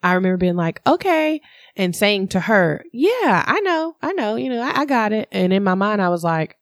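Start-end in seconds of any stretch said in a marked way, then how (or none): 0.9-5.3 putting on a brave front. Retold or imitated. Pretending to be fine to mom.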